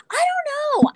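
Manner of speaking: breathy whispered aside. Real, not acted. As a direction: drop to a whisper. Whispered aside about drinks.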